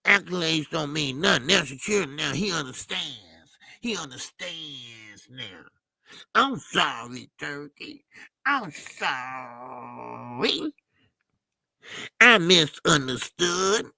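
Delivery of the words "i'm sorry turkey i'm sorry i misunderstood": mock tearful apology. Mocking a singer's apology.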